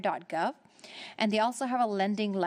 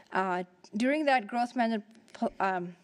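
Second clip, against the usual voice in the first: out of breath. Real, not acted. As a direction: talk while winded. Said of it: "I'm out of breath right now".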